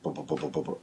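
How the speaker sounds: low, soft stuttering bub-bub-bub; imitated flicker noise. Telling how the head torch started flickering, low imitated flicker. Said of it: "started flickering. It was like".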